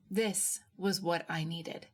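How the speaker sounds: usual speaking voice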